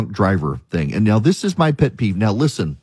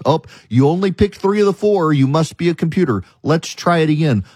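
much higher, sing-song scolding machine; mock computer voice; 5 semitones higher than usual. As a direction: needle the user like a smug captcha. Mocking the website's captcha check.

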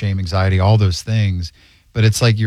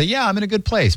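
casual high voice; 11 semitones higher, 3 dB quieter than usual. Retold or imitated. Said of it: "some people can say".

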